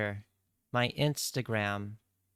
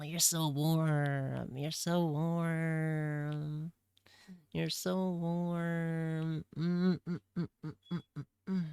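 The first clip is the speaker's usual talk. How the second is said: tender hug; 4 semitones higher, slower than usual. Pretend. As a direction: melt into the hug, slow and tender. Hugging plushie tenderly.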